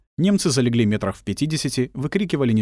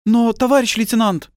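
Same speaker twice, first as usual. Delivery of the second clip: high, loud startled objection; protest, caught off guard; flustered protest; 12 semitones higher, 5 dB louder than usual. Acted. Girl protesting the order, flustered and loud. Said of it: "девушка растерялась".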